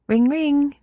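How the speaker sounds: excited girl mimicking a phone ring; Mina fake ringing. A narrator's reading. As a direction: bounce the ring like a giddy girl. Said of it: "Mina said".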